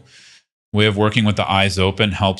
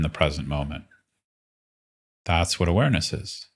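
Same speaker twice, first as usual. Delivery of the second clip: unhurried meditation guide, long pauses between phrases; guided meditation. Acted. Teacher leading listeners into relaxed awareness, guided meditation. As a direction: guide them gently into practice, leaving space.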